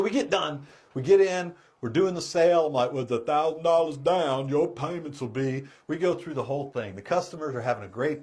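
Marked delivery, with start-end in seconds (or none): 2.9-5.6 Southern simpleton sales pitch; Forrest Gump. Retold or imitated. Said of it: "I gotta stay in character".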